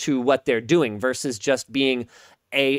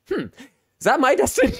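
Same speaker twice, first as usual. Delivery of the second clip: mock dramatic musing; 9 semitones higher, faster than usual. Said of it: "I was like".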